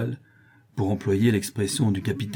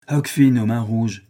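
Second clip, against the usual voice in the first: slow, grand pirate name; slow pirate boast; 4 dB louder than usual. Acted. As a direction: announce it slowly and proudly. Pirate name given in reply.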